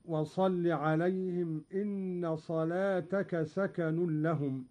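slow, measured tajwid chant; تلاوة مرتلة; Quran recitation. Shown as a demonstration. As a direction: recite it like a reader of Qur'an. Recites verse in tajwid style.

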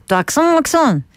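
playful English accent on αξόν; mock English accent. Shown as a demonstration. Host jokes about the English accent she had as a child, mock English accent. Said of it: "είχαμε το accent".

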